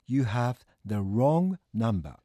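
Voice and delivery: very slow, evenly spaced English; drawn-out, word-by-word teaching delivery; repeat-after-me model. Shown as a demonstration. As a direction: say it slowly for learners to copy. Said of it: "続けて言ってみてください".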